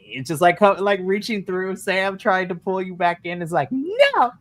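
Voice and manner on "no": high, drawn-out comic "no"; mock desperate cry. Sam pulling a friend back from the goddess, mock desperate. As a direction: play a struggle, voice jumping way up. Acting out struggle to pull friend free.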